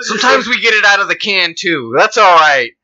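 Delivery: mildly high mock indignation; mock prim onlooker. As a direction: keep up the offended bystander. Mock white onlooker continues.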